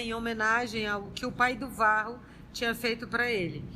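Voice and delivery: ordinary talk, nothing marked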